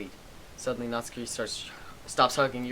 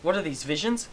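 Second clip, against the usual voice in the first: shocked confusion; 6 semitones higher than usual. Acted. Reading a shocked character line.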